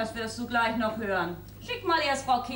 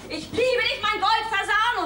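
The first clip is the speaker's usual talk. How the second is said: mock lover's whisper; 8 semitones higher, 4 dB louder than usual. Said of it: "was du mir ins Ohr geflüstert hast".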